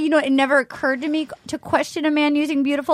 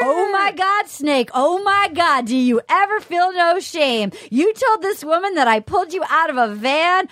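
Kenny impression; 4 semitones higher than usual. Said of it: "Best impression of Kenny I've ever heard".

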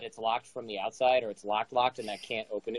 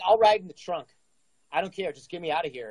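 desperate begging; 5 semitones higher than usual. Retold or imitated. Begging to be driven away.

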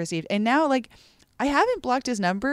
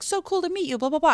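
high, chirpy texting voice; mock friendly; 10 semitones higher, faster than usual. Airport stranger's first text to her, read as friendly. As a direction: read it out as an over-friendly greeting. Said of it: "It starts very friendly".

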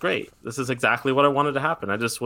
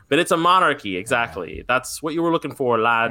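put-on a light stab at a British accent; half-hearted British accent, lad-style; British accent impression. Podcast host teasing co-host in a weak British accent. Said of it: "And that's my best British impression".

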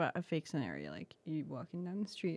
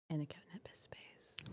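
unvoiced whisper, much softer; very quiet; 3 semitones lower, 11 dB quieter than usual. Real, not acted. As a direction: whisper the phrase almost under breath. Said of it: "I said that very quiet".

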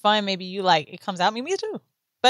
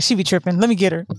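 lower, booming mock God voice; 9 semitones lower, faster than usual. Friend voicing God reacting to her near-fall, mock booming. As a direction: play God fed up and swooping in. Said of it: "He was like".

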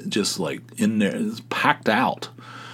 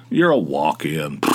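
mocking hostess; 5 semitones lower, slower than usual.

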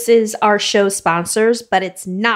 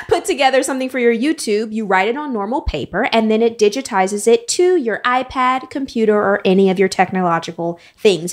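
game show host voice. Acted. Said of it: "that was her best game show host voice ever".

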